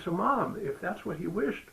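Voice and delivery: baffled son demanding an answer; climbing incredulous question; puzzled son. Retold or imitated. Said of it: "And I said".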